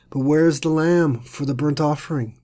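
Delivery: hesitant question after a long pause; faltering. Shown as a demonstration. Isaac asking his father where the lamb is, faltering. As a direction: ask "But where is the lamb" haltingly, as if afraid. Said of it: "You can almost hear Isaac's faltering words".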